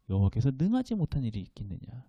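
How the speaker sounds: 능하지 said again quietly, almost to himself. Shown as a demonstration. Preacher repeating the verse softly to the congregation. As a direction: let the line fall soft and low. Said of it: "repeated verse, softer".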